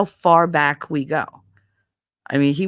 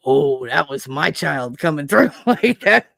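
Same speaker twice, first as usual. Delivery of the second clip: talking through giggles; laughing; 3 semitones lower than usual. Real, not acted. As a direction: laugh while you say it. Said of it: "I start to laugh".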